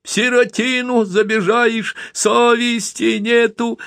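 high, slow wailing lament; keen like a grieving woman; boy echoing his mother's laments. A narrator's reading. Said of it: "причитал Яшка".

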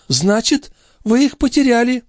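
put-on high, fast fussing old woman; mock-innocent old concierge. A narrator's reading. The concierge pretending not to know where the watch went, high and fussy. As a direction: play dumb, all fluster. Grivette to Marat.

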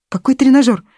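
startled high question; alarmed. Acted. Scared wife asks about purchase.

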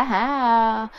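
spirit answering the elder, lightly voiced; possessed spirit answering. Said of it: "trả lời nói rằng".

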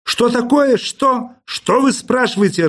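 high-pitched baffled annoyance; mildly exasperated questioning; irritated. A narrator's reading. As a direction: get testy with the caller, pitch up. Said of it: "раздражился Персиков".

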